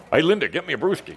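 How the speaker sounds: a jokey Wisconsin husband demanding beer; Wisconsin accent. Retold or imitated. Husband signs off teasing wife, Wisconsin accent. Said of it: "I talked like this".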